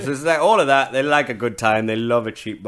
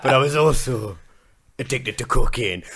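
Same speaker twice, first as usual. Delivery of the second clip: laughing and cracking up while quoting him; quoted confession half-laughed out; laughing through the quote; 4 semitones higher, 5 dB louder than usual. Retold or imitated. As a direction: giggle through the confession, higher and louder.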